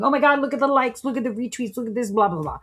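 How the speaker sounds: mock giddy excitement. Mocking a traitor high on the likes, giddy gush. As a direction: ham up a rush of online validation.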